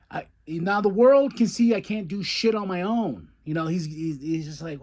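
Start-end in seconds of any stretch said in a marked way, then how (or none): 0.1-3.3 mildly angry retold outburst; higher-pitched imitation of frustration; acted mad. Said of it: "He's mad".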